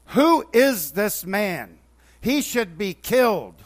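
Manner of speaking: slow, loud indignant demand; angry outcry. Retold or imitated. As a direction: hammer out each word in outrage. David's angry outburst at story.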